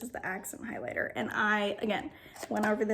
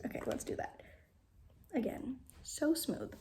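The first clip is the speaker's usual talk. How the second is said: whisper; 6 dB quieter than usual. Real, not acted. Whispered swatching.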